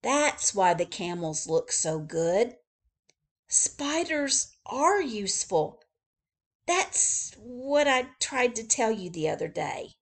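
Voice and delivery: high, loud excited discovery; excited shout. Acted. Joe shouting his discovery to the chief, high and loud. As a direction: shout out the big find. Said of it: "Joe shouted".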